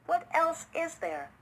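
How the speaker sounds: high, incredulous repeat; can't believe what you heard; disbelief. A narrator's reading. City Chipmunk answers his host in disbelief. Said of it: "replied the City Chipmunk in disbelief".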